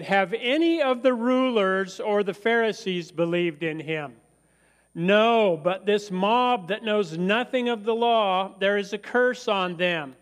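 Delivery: mildly acted outrage, hitting "No" hard; indignant rebuke. Religious leaders rebuke the temple guards, indignant.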